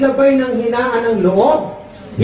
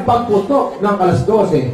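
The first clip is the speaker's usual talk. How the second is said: usual speaking voice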